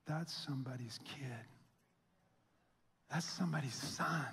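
hushed, stunned whisper; shocked whisper. Retold or imitated. Pastor recalling the Amber Alert, in a stunned whisper. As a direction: breathe it out as the truth sinks in. Sudden realization about lost child.

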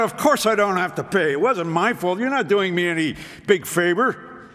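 huffy retort. Retold or imitated. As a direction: bristle at the favor. Still huffy at the supervisor.

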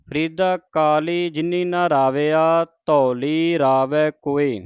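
measured verse reading with deliberate phrase breaks; scripture recitation. Acted. Teacher models Farid's verses for the congregation, measured recitation. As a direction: recite each phrase, then pause.

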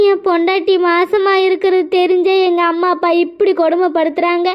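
tearful, voice catching on the words; half-sobbing complaint; crying. Acted. Son tells the neighbor about his cruel parents, crying. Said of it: "நீங்க அழாதீங்க".

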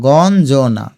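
গঞ্জনা slowly as gon, jo-na; broken into syllables. Shown as a demonstration. Teacher shows students the parts, গঞ্জনা slowly split. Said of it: "এই দেখো".

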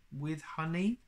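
high, rising hopeful question. A narrator's reading. Pooh asks Owl for honey with his tea, hopeful. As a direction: ask it with eager hope. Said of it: "Pooh asked hopefully".

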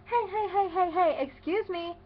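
put-on high, loud, whiny kid objecting; indignant kid. Ten-year-old objecting to being called nine, mock indignation. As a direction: cut in like an offended little boy. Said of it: "And then he says".

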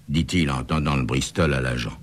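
ordinary delivery, nothing marked

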